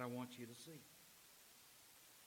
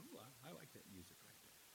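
much softer, savoring ooh; dreamy appreciation; 4 semitones lower, 17 dB quieter than usual. Retold or imitated. Preacher voices moviegoer enjoying soundtrack, soft delighted ooh. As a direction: melt into the music with a soft ooh.

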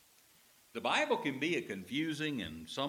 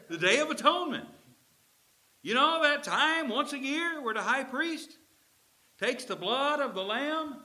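higher, louder fervent Jesus voice; Jesus pleading; 13 semitones higher, 9 dB louder than usual. Acted. Jesus urging the Emmaus disciples, higher and fervent.

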